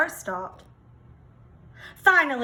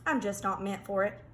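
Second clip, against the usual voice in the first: softer, lower resigned admission; sheepish peacock; 4 semitones lower, 8 dB quieter, faster than usual. Acted. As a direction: confess it quietly, defeated. Peacock admits defeat.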